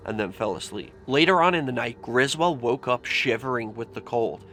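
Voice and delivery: hushed, tense ghost-story narration; nervous night vlog whisper. A narrator's reading. Tells a horror story quietly.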